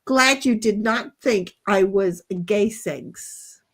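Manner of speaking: quoting Dom. Retold or imitated. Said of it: "And Dom's like".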